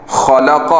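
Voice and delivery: خلق with all three vowels equally short; correct even reading. Shown as a demonstration. Teacher shows students the correct reading, evenly. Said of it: "تینوں کو برابر پڑھنا ہے".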